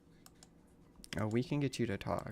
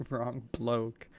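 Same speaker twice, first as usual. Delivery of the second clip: put-on British accent; 4 dB louder than usual. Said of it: "Carly's British now".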